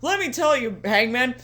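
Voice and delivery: exaggerated folksy MJF impression; hokey MJF voice. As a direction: play him as a gee-whiz hick. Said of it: "that's how he sounds in my head".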